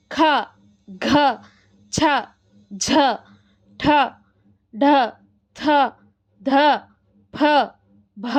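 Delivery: ఖ ఘ ఛ ఠ ఫ భ each said with a strong puff of air; aspirated letters. Shown as a demonstration. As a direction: press every letter with heavy aspiration. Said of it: "ఇట్లా ఒత్తి పలుకుతాం కదా".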